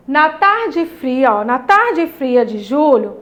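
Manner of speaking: slow, expressive poem recital; poem reading. Shown as a demonstration. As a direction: read it out like a poem for children. Teacher reads poem aloud. (leitura de poema expressiva)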